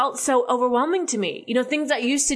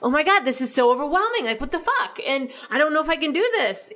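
anxious freaking out; 4 semitones higher, faster than usual. Retold or imitated. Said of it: "where I'm freaking out".

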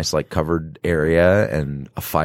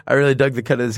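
high, hammed-up Australian twang; mock Aussie accent; 6 semitones higher than usual. Bartender complimenting a customer's style, mock Aussie accent. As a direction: lay the Aussie accent on thick. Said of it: "just do a voice for 'em".

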